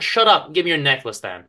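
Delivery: loud harsh order; mugger's snap. Acted. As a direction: cut her off as the thug. Mugger snaps at victim.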